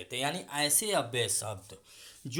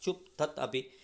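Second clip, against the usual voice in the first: sharp dismissal; 2 semitones higher, 4 dB louder than usual. Shown as a demonstration. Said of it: "अस्वीकृति वाले शब्द".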